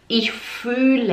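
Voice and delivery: fühle slowly with a held ü; long Ü. Shown as a demonstration. Teacher models the long vowel, slow fühle. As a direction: lengthen the ü in fühle. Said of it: "É um U longo".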